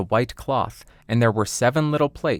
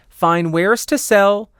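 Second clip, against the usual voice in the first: high, loud, slow hawker's call; disguised queen calls at the door, high and loud; peddler's cry; 9 semitones higher, 6 dB louder, slower than usual. Acted. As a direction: call out your wares like an old peddler.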